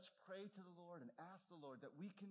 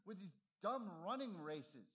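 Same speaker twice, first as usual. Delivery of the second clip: higher, louder exasperated scolding; scolding sister; 7 semitones higher, 7 dB louder than usual. Retold or imitated. Sister scolding Eric about wasting time on athletics, loud and exasperated. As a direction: nag him like a missionary sister fed up. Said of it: "And she said".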